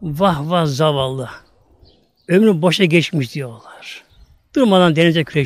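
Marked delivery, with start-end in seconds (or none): 0.0-3.3 mock pity. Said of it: "Güya bunu acıyorlar".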